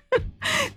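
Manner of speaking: soft, high giggle; brief high titter; amused laugh. Real, not acted. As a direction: giggle lightly at the nickname. Laughs at Dumbo nickname.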